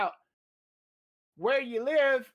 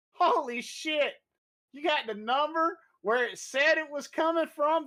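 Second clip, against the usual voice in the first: retold amazement; 4 semitones higher than usual. Agent sees the screenshot of the number, retold amazement. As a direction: stretch the opening exclamation in awe.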